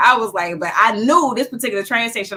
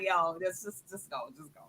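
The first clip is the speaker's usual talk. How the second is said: retold weary dismissal; 11 dB quieter than usual. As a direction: wave her off softly, imitating a defeated officer. Retold cop giving up.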